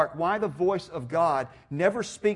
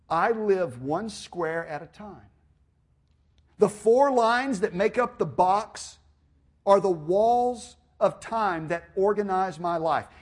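measured, emphatic essay reading; reading aloud; 3 semitones higher, 4 dB louder than usual. Real, not acted. Preacher reading a date book essay, measured recitation. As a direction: read it out phrase by phrase, building gradually.

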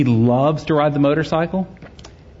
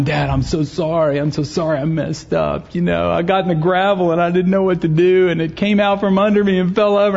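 imitating an upset kid's rising apology; apologetic boy; 4 semitones higher than usual. Son confessing to dad that he crashed the bike, apologetic. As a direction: pitch climbing as the excuse tumbles out. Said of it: "he was seriously sorry".

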